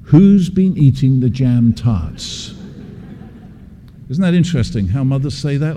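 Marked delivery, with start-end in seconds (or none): 0.0-2.5 stern mother. Retold or imitated. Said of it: "She said".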